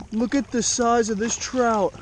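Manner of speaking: amazed at the fish's size; eager showing-off; excited. Real, not acted. Showing off a big trout.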